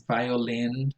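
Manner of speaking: violin drawn out, weight on LIN; primary stress on lin. Shown as a demonstration. Introducing a tricky word, violin stressed on LIN. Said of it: "one primary stress on lin".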